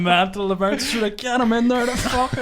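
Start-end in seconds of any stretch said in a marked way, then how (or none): 1.2-2.4 raised, higher imitated shout; mock bouncer yell. Bouncers outside the casino shouting at the stuck taxi, mock yell. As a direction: bark it like an annoyed bouncer, half-joking.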